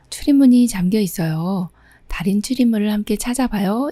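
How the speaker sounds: normal talking voice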